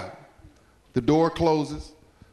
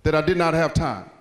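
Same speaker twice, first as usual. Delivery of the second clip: mad father; 3 semitones lower than usual. Acted. Dad to pestering son, mildly mad. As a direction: scold with measured emphasis, dropping at the end. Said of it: "his daddy gets real mad".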